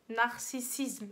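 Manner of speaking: "Narcissisme" sounded out syllable by syllable; careful articulation. Real, not acted. Vlogger tackling a hard word, "Narcissisme" carefully articulated. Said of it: "c'est trop dur à dire".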